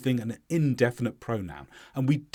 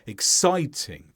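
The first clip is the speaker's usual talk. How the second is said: "exciting" with the weight on "-cit-"; "exciting", one beat on the second syllable; stress on si; slower than usual. Shown as a demonstration. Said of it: "one stress on si".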